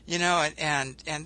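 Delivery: ordinary talk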